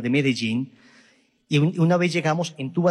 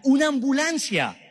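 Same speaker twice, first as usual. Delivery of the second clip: higher, slow mock cry of "ambulancia"; retold wife's cry; 9 semitones higher than usual. Retelling the wife spotting an ambulance, mock cry. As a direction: call out the sighting, drawn out. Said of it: "mi esposa grita".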